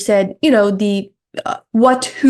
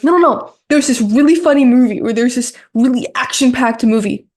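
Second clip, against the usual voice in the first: excited friend. Shown as a demonstration. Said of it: "You're like".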